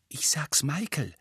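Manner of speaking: mildly impatient, kept down. A narrator's reading. Ginny jumping up to tell Michael, mildly impatient. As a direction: say it with a touch of impatience. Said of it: "sagte Ginny ungeduldig".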